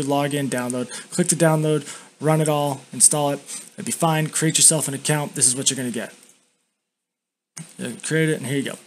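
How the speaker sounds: talking with a lip full of dip. Real, not acted. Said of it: "I gotta dip in".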